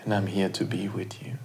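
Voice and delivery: soft whisper; whispered affirmation. Shown as a demonstration. Host whispering presence, soft whisper. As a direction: whisper it close. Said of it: "receive the words".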